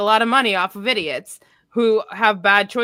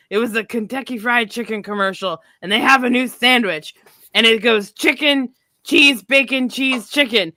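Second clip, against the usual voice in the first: Sherrod Brown impression; 3 semitones higher, 4 dB louder than usual. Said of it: "he comes out and he's like".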